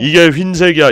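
높고 크게 우기기; 보란 듯이 크게 외치기; 답답한 강변. Real, not acted. Insists while showing white. (목청 높여 강조)

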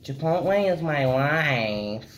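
mock dramatic declaration. Mocking chipotle lover.

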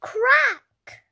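loud, high snap of a word; sharp crack. A narrator's reading. Narrator acting out the shell shattering. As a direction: crack it out suddenly.

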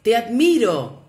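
loud, high call across the valley; father shouting praise toward the mountain. A narrator's reading. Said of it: "dirigiéndose a la montaña, gritó".

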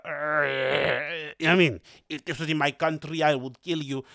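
slow, menacing mock threat; seething man. DJ imitating the angry man in the background, slow menacing voice. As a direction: growl it out slowly like a seething bloke. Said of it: "the image of him just in the background".

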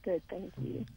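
a slightly shaky, choked-up reply. Real, not acted. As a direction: voice trembling with emotion. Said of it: "I've just got a very shaky voice".

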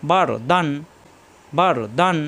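"বার" ending in a full, thick r; heavy r. Shown as a demonstration. Teacher models the word, "বার" with heavy final r. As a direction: say "বার" with a weighty r, then "দান". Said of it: "রয় সাকিন রমট হবে".

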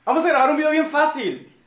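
high sugary sister voice; man doing a woman's voice. Retold or imitated. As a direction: sweet-talk dad as the sister. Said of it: "Porque somos Ale Ríos".

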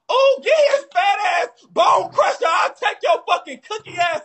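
high-pitched, rapid-fire insult tirade; trash-talk at a high pitch; hyped-up roast. Pretend. Roasting an opponent on live stream.

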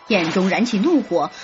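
plain reading voice

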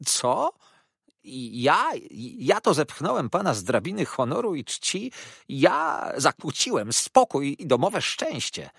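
loud, high-pitched indignant outburst; foaming outrage. Acted. Jurajach hurls Wakefield's accusation back at him, outraged. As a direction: cry out in affronted fury, voice leaping up. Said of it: "wołał, pieniąc się Jurajach".

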